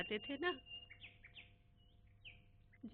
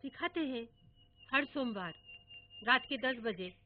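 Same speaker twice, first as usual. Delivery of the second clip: a hint of solemn grandpa; mock serious grandfather. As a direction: keep a straight face. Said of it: "दादा गंभीर होकर बोले".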